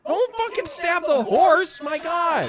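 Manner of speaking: high, hammed-up old-English knight; medieval knight voice. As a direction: shout like an outraged knight. Voices game knight, mock archaic.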